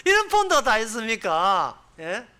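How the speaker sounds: 이런 stressed in an amazed question; mock amazed 이런 폰드가; incredulous question. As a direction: ask in disbelief, stressing 이런.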